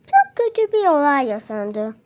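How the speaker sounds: soft-spoken mock news bulletin; pretend newsreader. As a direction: report it like a TV presenter, quietly. Plays newsreader announcing a monster.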